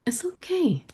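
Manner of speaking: gently reassure, imitating a wise child; lightly acted, soothing child's voice; calm reassurance. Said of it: "so calm and she says".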